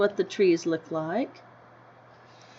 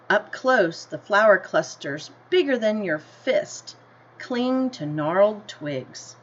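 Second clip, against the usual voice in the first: gentle storybook read-aloud, slightly slower; story reading; 3 dB louder than usual. A narrator's reading. Teacher reading the class a picture book, in an unhurried storybook voice.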